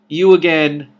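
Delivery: loud, high outburst; startled shout. A narrator's reading. Wizard startled by the princess, shouting. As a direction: yell it in shock.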